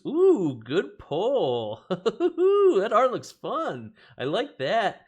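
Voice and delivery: high, loud gleeful delight; excited. Real, not acted. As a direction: cheer over a great pull. Good pull excitement.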